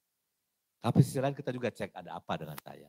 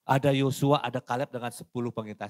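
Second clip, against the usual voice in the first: normal talking voice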